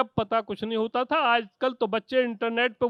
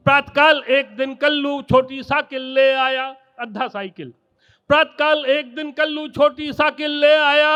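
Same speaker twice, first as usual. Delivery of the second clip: poem recitation; 3 dB louder than usual. Acted. Kavi sammelan poem recitation.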